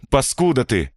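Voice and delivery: pained, groaning curse; a wounded man's moaning curse. A narrator's reading. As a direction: push it out through pain, half a moan. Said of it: "простонал Хибера".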